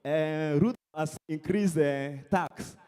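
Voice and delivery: low, slow moaning about taxes; mock complaining. Comedian mimics Kenyans moaning about tax, mock complaining. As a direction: grumble it in imitation. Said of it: "You guys complain".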